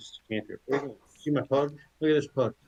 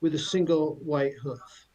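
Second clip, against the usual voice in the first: haughty talking horse; 2 semitones higher than usual. Acted. The aware horse answers the elf's questions, lightly haughty. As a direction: look down your nose at the elf.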